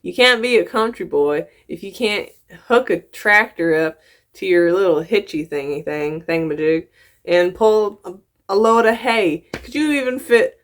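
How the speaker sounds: lively Southern country accent. Real, not acted. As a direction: challenge him in a country twang. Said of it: "I hope my accent".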